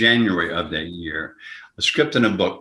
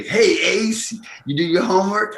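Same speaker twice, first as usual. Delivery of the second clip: high, breezy put-on Mickey voice; cocky high-pitched buddy call; Mickey's greeting; 11 semitones higher than usual. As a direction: tease your partner like Mickey would. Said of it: "he'd always say".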